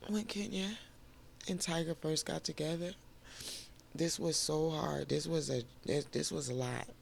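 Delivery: high, soft and teary, voice breaking; catching breath midword through tears; crying. Real, not acted. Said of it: "I'm sorry, I'm crying".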